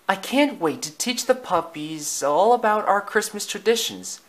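high, excited mother dog; eager Lady. Acted. Lady tells Tramp about teaching the puppies, high and eager. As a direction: voice Lady brimming with anticipation, pitched high.

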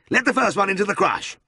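high-pitched yelled command; yelled order. A narrator's reading. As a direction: call the order out across the yard. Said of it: "he yelled".

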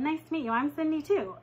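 smiling hello. Retold or imitated. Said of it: "So I smiled and said".

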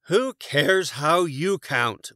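impatient yell. A narrator's reading. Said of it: "Boris yelled".

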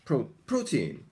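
put-on "Pro-, protein" broken off after PRO, then said whole as PRO-teen; English pronunciation of protein. Shown as a demonstration. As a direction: start "Pro-", pause, then "protein" with a high PRO. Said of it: "Here is the pronunciation".

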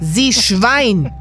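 furious outburst at the killer; angry insult. Acted. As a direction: hurl it at him in disgust. Inspector insults taunting killer.

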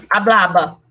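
hablaba said with a b sound in both syllables; Spanish b in hablaba; Spanish pronunciation. Shown as a demonstration. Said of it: "fica assim".

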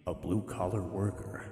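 canyon echo. Shown as a demonstration. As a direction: echo voice mod, booming reverb. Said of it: "We're reading it in the Echo voice".

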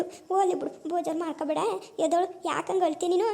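put-on a mild old mother soothing her upset daughter.

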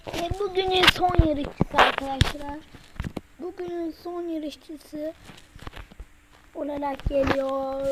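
slow mock race announcer. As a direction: announce it slowly to the crowd. Announcing last racer.

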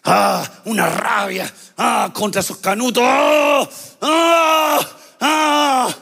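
voicing Saul's fury with growled ahs; preacher playing furious Saul; mock rage grunts. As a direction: act out an angry snarl.

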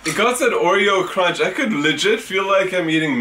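chewing while talking; speaking between spoonfuls; mouth full of cereal. Real, not acted. Seen 0: Both hold bowls and take spoonfuls; chewing mouths throughout; speaker unclear.

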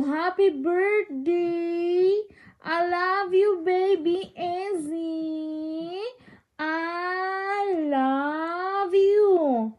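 very slow, drawn-out singsong endearment; doting parent cooing slowly. Real, not acted. Cooing love to a baby.

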